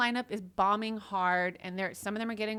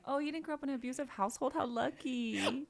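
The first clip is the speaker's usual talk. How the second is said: mock envy; 5 semitones higher, 4 dB quieter than usual. Acting out an envious mocking remark.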